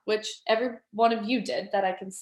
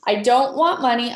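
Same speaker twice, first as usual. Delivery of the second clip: louder, punchy affirmation; on overdrive; 5 dB louder than usual. Shown as a demonstration. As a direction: throw it out with full energy. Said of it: "We're gonna do it on overdrive".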